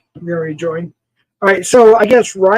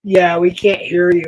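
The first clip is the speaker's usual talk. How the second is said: usual speaking voice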